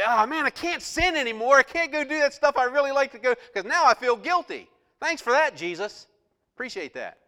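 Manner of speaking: loud, high mock complaining; loud sarcastic mock whine; whiny reluctant believer. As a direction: whine like someone robbed of their fun.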